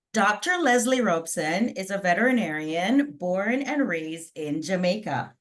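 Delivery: lightly twanged, hammed-up American accent; put-on American twang. Shown as a demonstration. Host jokingly introducing the Jamaican-born vet, put-on American twang. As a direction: read the bio with a playful American twang. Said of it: "do this presentation with a twang".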